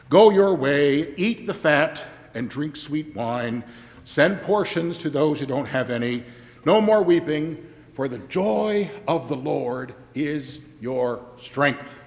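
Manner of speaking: gentle proclamation. Retold or imitated. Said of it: "Ezra and Nehemiah said".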